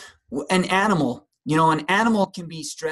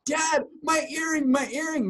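mock upset daughter; 8 semitones higher than usual. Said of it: "she's like".

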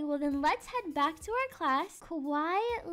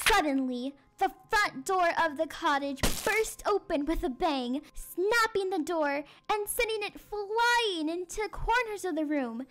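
dramatic story narration. A narrator's reading. Teacher reads the cottage break-in to children, dramatic suspense. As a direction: build to the monster's entrance.

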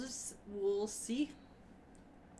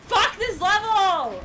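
frustrated; 5 semitones higher, 8 dB louder, much slower than usual. Retold or imitated. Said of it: "you like, oh".

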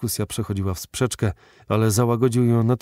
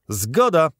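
calling out; 7 semitones higher, 5 dB louder than usual. A narrator's reading. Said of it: "zawołali wszyscy trzej członkowie komitetu".

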